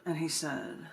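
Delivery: spoken-word poem, told as a story with voices; poem performance. Acted. Poet reading her poem to the open mic crowd, performed.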